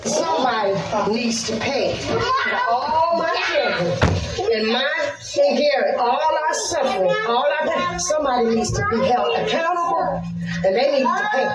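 high-pitched angry outcry. Real, not acted. Single mother railing at the system, angry. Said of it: "she was angry at the system".

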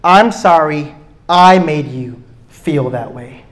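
slow, sincere correction; the right way to apologise, slow and sincere; sincere apology. Shown as a demonstration. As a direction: say it like you own it.

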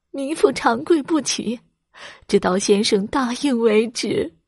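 a touch of weeping insistence; crying plea. Acted. Wife refuses to leave, mildly tearful plea. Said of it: "刘氏哭着说".

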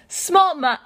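high, loud cry of recognition; startled yell. A narrator's reading. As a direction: yell the name, cut off. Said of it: "Tamura yells".

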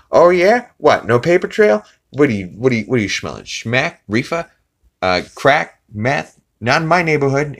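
hammed-up tough-guy drug bust; Peter's outrage. Peter accusing the lemonade girl, high loud mock outrage.

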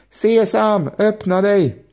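high, eager shout of the magic words. A narrator's reading. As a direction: Ali Baba trying the spell, calling up high.

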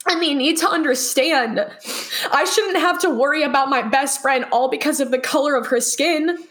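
crying. Real, not acted. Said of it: "I am sorry that I'm crying".

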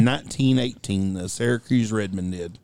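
deadpan fake fact. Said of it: "He's lying".

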